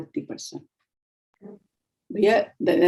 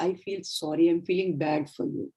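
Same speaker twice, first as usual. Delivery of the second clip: gently and much softer, a quiet sincere apology; soft sorry; 2 semitones lower, 6 dB quieter than usual. Shown as a demonstration. Trainer showing a kinder tone to an upset patient, soft and sincere. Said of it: "You can see the tone of voice".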